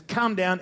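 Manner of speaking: "Come down" hit loud and high; emphatic demand. Shown as a demonstration. Preacher showing the nobleman's demand, loud and emphatic. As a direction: punch out "Come down" as an order. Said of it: "There's two emphatic".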